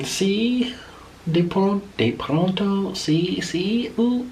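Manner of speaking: high-pitched, halting mock Spanish; mock Spanish reply. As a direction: fumble for words in a high voice. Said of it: "she started saying some other things".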